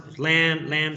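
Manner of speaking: "lamb" with English "a", silent B; correct pronunciation. Shown as a demonstration. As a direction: repeat "lamb" as "laem". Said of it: "ya dije que".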